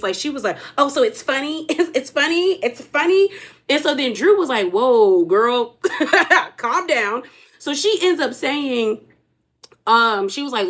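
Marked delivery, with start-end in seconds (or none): 0.8-3.3 high, offended questions, climbing with each repeat; stank attitude. Retold or imitated. Britt thinks Drew is laughing at her, mock offended. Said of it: "a stank look on her face". 4.7-7.2 retold amused "whoa", breaking into a laugh. Drew reacting to Britt's outburst, laughing. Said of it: "Drew laughs at her".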